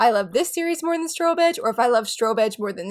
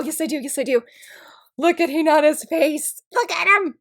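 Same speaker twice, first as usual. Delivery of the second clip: hushed whisper, breathy and unvoiced; 5 semitones higher than usual. Real, not acted. Whispering to viewers about the sticker, hushed. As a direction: lean in and whisper over the sticker.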